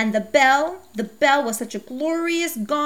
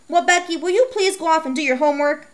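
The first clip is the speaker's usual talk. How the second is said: higher, louder, exasperated mom voice; scolding mother; 6 semitones higher, 4 dB louder than usual. Acted. Mom scolding Becky for wanting a bike, high and exasperated. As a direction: play a sharp, fed-up mother.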